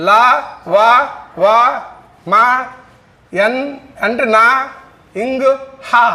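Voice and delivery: గా, జా, డా, దా, బా each said alone with a pause; voiced sounds drill. Shown as a demonstration. Teacher drilling students on voiced sounds to memorise them. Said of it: "వీటిని మనం గుర్తుంచుకోవడం కోసం".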